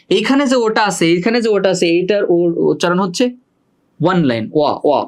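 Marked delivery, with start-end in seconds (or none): 4.5-5.0 "ওয়া" reduced to a pure o vowel; isolated vowel onset. Shown as a demonstration. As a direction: sound out "ওয়া" as the first vowel of online. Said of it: "ওয়ার মতো উচ্চারণ".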